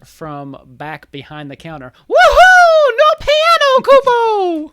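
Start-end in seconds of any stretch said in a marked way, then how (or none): 2.1-4.7 high-pitched shout. Acted. Voice calling from behind counter.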